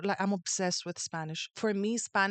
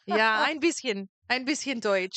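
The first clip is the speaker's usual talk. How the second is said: put-on German accent; slower than usual. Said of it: "you do German".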